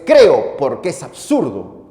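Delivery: voicing Tertullian. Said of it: "pero mi frase es".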